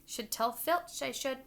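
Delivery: a hint of mock-innocent poltergeist; saintly voice. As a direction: sound falsely pious. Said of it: "in a saintly voice".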